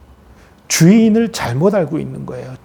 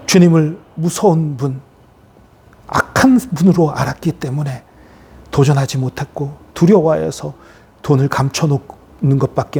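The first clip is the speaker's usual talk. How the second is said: solemn prayer; 2 semitones lower than usual. Real, not acted. Pastor praying about the foolish servant, solemn prayer. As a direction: pray reverently with pauses between phrases.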